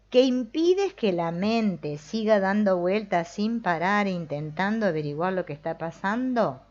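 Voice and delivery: reading the question slowly and with care. Real, not acted. Teacher rereading the book passage to listeners, slow and deliberate. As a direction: take the passage slowly, word by word. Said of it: "lo voy a leer más lento".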